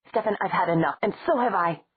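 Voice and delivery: loud angry retort; roar. Acted. Stefan roaring back at Matt in anger. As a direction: hurl it back at him. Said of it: "Stefan shot back in a roar".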